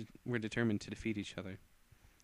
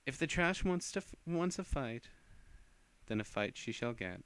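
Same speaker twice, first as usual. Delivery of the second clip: higher, contemptuous threat; scornful challenge; 3 semitones higher than usual. Acted. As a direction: spit out the challenge. Character accepting a fight.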